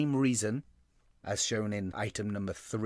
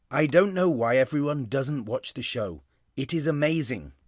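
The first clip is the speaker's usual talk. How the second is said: louder, higher, enthusiastic reading; emphatic exclamation; 3 semitones higher, 5 dB louder than usual. Shown as a demonstration. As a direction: exclaim it to your readers. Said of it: "I'm really shouting at my readers".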